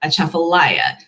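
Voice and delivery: Atchafalaya with emphasis away from the first syllable; stress in odd place. Shown as a demonstration. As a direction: show the unexpected stress inside Atchafalaya. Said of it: "emphasis kind of in the weird part of the word".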